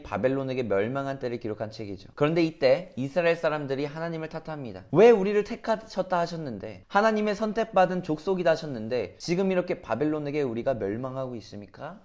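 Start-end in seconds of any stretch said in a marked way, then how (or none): 4.9-12.0 put-upon people protesting to God; aggrieved complaint. Retold or imitated. Israel blaming God for their downfall, aggrieved complaint. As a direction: plead a grievance, starting raised and sinking at the end. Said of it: "이렇게 하소연하고 있는 이스라엘 백성들".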